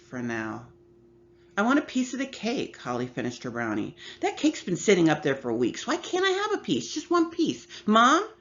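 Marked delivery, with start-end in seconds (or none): 1.6-8.3 put-on high, pleading little girl voice; whiny little sister. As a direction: beg like a small child who wants cake. Little sister begging for cake.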